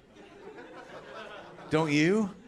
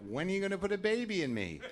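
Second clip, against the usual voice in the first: mock wife; 11 semitones higher than usual. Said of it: "she says things like".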